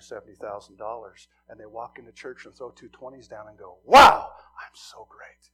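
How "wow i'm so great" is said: loud, slow, breathy self-praise; mock smugness. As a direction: sneer as a smug giver. Mocking rich churchgoers.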